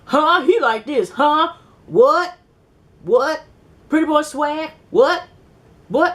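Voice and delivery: incredulous surprise. Real, not acted. Speaker's disbelief at his words.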